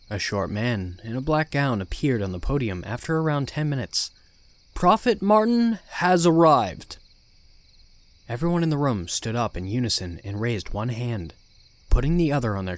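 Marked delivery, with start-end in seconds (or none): 4.7-7.0 slow, loud ceremonial herald; solemn announcement. Acted. Announcing the prophet's arrival.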